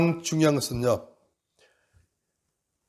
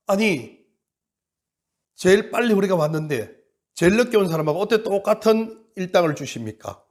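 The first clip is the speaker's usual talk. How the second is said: arguing workers; 3 semitones higher than usual. Acted. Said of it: "막 하나님이 따지는 겁니다".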